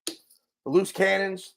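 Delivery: high, loud, stretched-out welcome; excited greeting. Acted. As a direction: greet the audience with big energy. Excited greeting opening the show.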